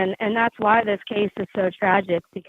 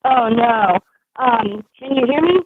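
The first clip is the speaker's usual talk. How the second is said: muffled, breaking-up bluetooth headset mic; like talking through water on the phone; underwater phone sound; 2 semitones higher, 4 dB louder than usual. Real, not acted. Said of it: "you sound like you're underwater a little bit".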